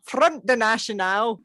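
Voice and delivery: badly faked French, still sounding Glaswegian; French accent. Shown as a demonstration. Host retrying the party's name after being teased, attempted French accent. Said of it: "I didn't do my French accent".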